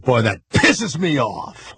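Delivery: slow, mildly mad grumble; a touch of the wife's annoyance; wife annoyed at the Packers' bye week, slow mock grumble; imitating wife's mad complaint. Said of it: "like that. She was all mad".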